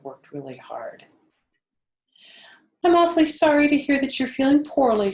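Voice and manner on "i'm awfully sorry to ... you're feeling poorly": fast, anxious whisper; hushed, concerned piglet; worried whisper. A narrator's reading. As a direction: whisper it out, afraid for his friend. Wilbur worried for Charlotte.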